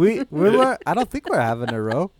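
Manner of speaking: loud, high mock Irish accent; comic put-on Irish voice. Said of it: "say it with your Irish accent".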